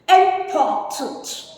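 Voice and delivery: "Important" in slow, separated syllables; careful pronunciation. Shown as a demonstration. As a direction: say "Important" slowly, like a teacher modelling it. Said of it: "Please pronounce it properly".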